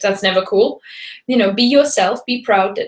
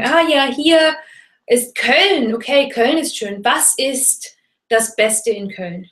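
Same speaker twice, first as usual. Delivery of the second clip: curious tourist; 2 semitones higher, slower than usual. Shown as a demonstration. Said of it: "Du kannst sagen".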